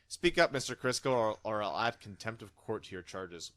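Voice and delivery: stern judge. Pretend. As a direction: scold the defendant from the bench. Judge scolding defendant.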